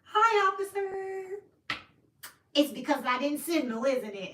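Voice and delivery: a lightly voiced high, slow sugary hello; sweet-talking officer. Sister sweetly greeting the officer who pulled her over, high and slow. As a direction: drag out the hi like butter wouldn't melt. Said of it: "she's just like".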